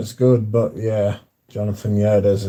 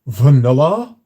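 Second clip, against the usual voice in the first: "Vanilla" drawn out in a put-on voice; imitating Demi saying vanilla; 3 dB louder than usual. Viewer fan mocking how streamer Demi says it. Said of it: "who she sounds like".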